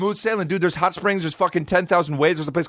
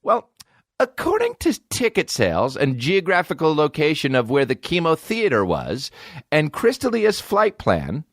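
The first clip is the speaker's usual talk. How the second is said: mock reporter. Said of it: "They're acting like they did".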